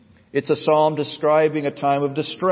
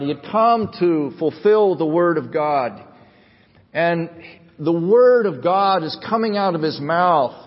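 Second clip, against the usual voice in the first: weighty, stretched pulpit emphasis; emphatic preaching; 4 semitones higher, 4 dB louder than usual. Real, not acted. Preacher proclaims Christ's love of the Word, emphatic preaching. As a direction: proclaim it with conviction.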